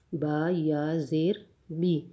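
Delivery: slow spelling, "بی" with a long ee; long ya ending. Shown as a demonstration. Teacher comparing written ya for students, slow long ya ending. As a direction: spell each part slowly up to "بی". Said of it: "یا add ہو جاتا ہے".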